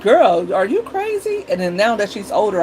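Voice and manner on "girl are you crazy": higher, exasperated disbelief; incredulous scolding. Retold or imitated. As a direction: scold her like she's lost her mind. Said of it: "I'm like".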